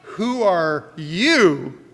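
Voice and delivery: "Who are YOU?" slow, landing on YOU; stress on YOU. Shown as a demonstration. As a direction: drag it out and land on YOU. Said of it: "put the emphasis in a different way".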